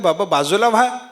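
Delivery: villagers shouting a warning. Retold or imitated. Villagers shouting at the old man to step aside from the charging bull. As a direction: call out urgently to a deaf old man. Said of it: "ओरडून सांगितलं".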